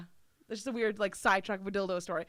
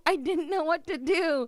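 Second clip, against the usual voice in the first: higher, louder, slower repeat; emphatic repeat; 6 semitones higher, 6 dB louder than usual. Shown as a demonstration. Stressing how stuck she was, louder emphatic repeat. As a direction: lean hard on the repeat. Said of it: "said twice".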